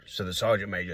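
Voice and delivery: usual speaking voice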